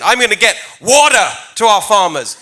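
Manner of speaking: water said the American way, with a flapped t and an r at the end; American accent. Shown as a demonstration. British candidate shows the crowd his American accent for farmers. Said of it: "you've gotta really say it in an American accent".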